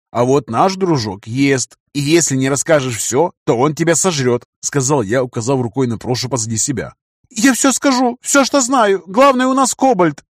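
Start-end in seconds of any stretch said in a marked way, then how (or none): 0.1-4.4 menacing. Acted. Threatens captive with zombie. 7.3-10.3 high, panicky rush of words; terrified confession. Acted.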